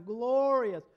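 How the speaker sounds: high, loud, drawn-out acclaim; exultant praise. Acted. Preacher re-enacts the crowd that sang and praised, exultant cry. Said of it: "They sang and praised".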